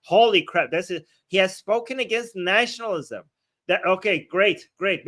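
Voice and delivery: mock astonishment turning to fake approval; sarcastic. Real, not acted. Streamer reacting to the Pope's anti-nationalist stand, sarcastic. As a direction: feign being impressed. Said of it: "Me, I'm being sarcastic".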